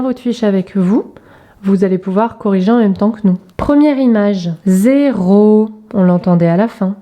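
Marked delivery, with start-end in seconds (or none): 4.7-5.7 "zéro" in two long syllables; slow, segmented teacher's demonstration. Shown as a demonstration. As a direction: stretch each syllable for young readers. Syllable exercise, picture word.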